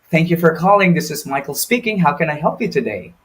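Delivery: polite, helpful call-center welcome; friendly phone greeting. Shown as a demonstration. Agent demonstrates a positive phone greeting, courteous and friendly. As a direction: greet the caller like you're glad they called. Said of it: "compared to".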